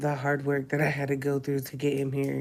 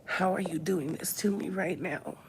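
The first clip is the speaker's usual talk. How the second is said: pleading with Misha; 3 semitones higher, 4 dB quieter than usual. Retold or imitated. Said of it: "I just kept telling her".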